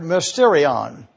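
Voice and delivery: "mysterion" said slowly and clearly, mis-TEE-ree-on; slow dictation of "mysterion"; Greek word said slowly. Shown as a demonstration. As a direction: lay out "mysterion" for the class to write down, unhurried. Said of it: "put down somewhere this Greek word".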